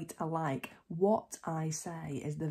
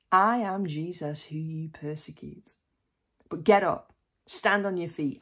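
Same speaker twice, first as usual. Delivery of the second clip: commanding Lord; 8 dB louder than usual. A narrator's reading. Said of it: "the Lord answered".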